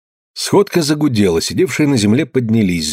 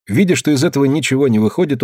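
ordinary delivery, nothing marked

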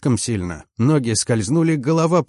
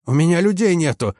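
hoarse yell; 7 semitones higher than usual. A narrator's reading. Chief mechanic protests lack of men, hoarse yell. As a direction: yell back in a husky voice. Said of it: "заорал он сиплым голосом".

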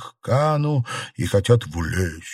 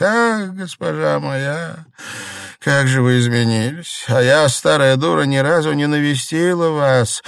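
put-on old woman grieving over the sick lady; upset; 6 semitones higher, 3 dB louder than usual. A narrator's reading. Old Liu shocked at the mistress's thinness, upset. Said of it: "бабушка Лю расстроилась".

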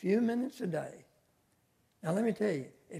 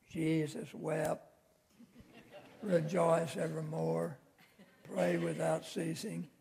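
mock lengthy verses; slower than usual. Shown as a demonstration. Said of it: "these lengthy verses".

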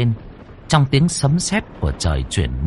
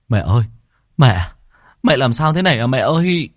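calling out; 4 semitones higher, 3 dB louder than usual. Acted. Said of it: "ôm mẹ mà hét lên".

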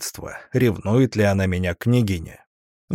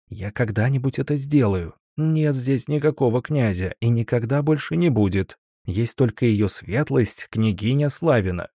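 usual speaking voice

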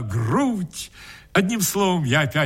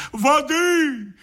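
high, slow stage cry; hammed-up shout for water; melodramatic call; 8 semitones higher, slower than usual. A narrator's reading. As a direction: overplay the alarm for the hall. Actor melodramatically calls for water.

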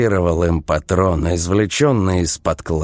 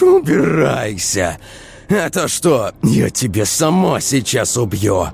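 raging shout; 6 semitones higher than usual. Acted. Vika raging at Vova.

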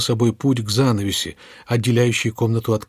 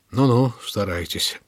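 good-natured; slower than usual. Acted. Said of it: "добродушно улыбнулся".

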